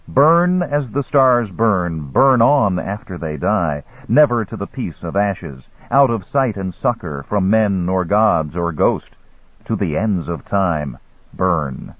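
slow, measured incantation; solemn curse recitation. A narrator's reading. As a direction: intone the curse slowly, sinking at the end.

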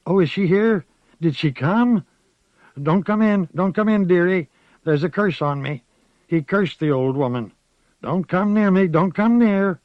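put-on high, quavering old woman's voice, fearful then fond; a frightened old witch calling her dearie; old witch Moss. A narrator's reading. Frightened old witch greets the child, high old voice.

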